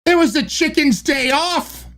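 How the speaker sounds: badly faked Scottish accent. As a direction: deliver the punchline in put-on Scottish. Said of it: "Read the joke in a Scottish accent".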